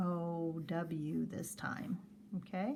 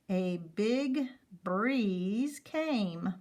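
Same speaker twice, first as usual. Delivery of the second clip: slow reading; much slower than usual. Shown as a demonstration. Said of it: "read that whole row".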